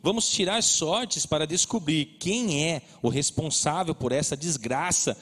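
steady, solemn Bible reading; scripture reading. Acted. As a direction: read the passage to the church. Reads Jonah chapter aloud.

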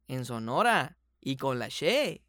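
a slip into a Sonoran accent on "la She"; casual Sonoran regional accent, said without thinking. Real, not acted. Guest slips into his own Sonoran accent while talking about training, Sonoran accent. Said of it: "aquí ya lo dije como sonorense".

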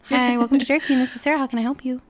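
friendly drive-through greeting, lightly lifted. Shown as a demonstration. Drive-through worker greets a customer, very friendly. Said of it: "I was very friendly".

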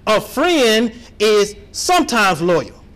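"sometimes" read slow in disbelief. Shown as a demonstration. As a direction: read "sometimes" as if it can't be true. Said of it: "I'm gonna read that again".

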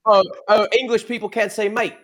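mock-British indignation; British accent. Co-host defends saying mate, mock English accent. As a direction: challenge them in a put-on British accent. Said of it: "we gotta talk with a British accent now".

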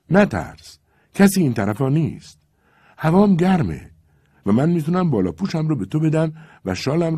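a hint of a lovesick Cossack calling up; young Cossack pleading. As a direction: coax her to the window, half calling. Levko calls under the window.

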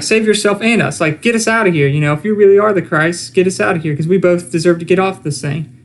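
lightly voiced scornful criminal; mocking criminal. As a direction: voice him pushing Jesus to save them. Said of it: "because he's like".

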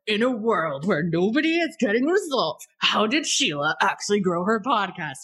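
lightly voiced trailer announcer; a hint of the dramatic "In a world" narrator; playful movie guy read. Shown as a demonstration. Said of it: "even do it in your movie guy voice".

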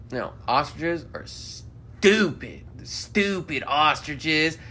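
slow drawn-out voice of a dim man; slow dim drawl. Retold or imitated. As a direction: drag it out like a slow talker. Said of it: "he started going on".

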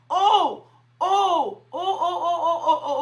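a run of oh broken by laughter; joyful laughing oh. Real, not acted. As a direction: laugh through the ohs. Preacher laughing in the Spirit.

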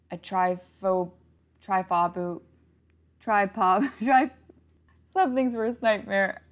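tripping over the word, laughing; laughing at own stumble; stumbling laugh. Real, not acted.

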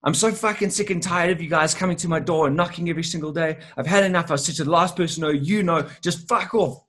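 woman at the door tells the salesman to get lost, mock angry; mock angry rant. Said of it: "She's like".

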